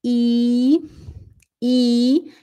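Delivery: i held long and closed; long German i sound. Shown as a demonstration. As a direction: stretch out i like German ie. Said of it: "Tem o i longo".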